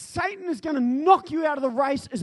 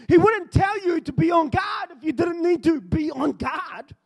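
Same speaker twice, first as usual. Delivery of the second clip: preaching. Acted. Preacher reading scripture, exhorting.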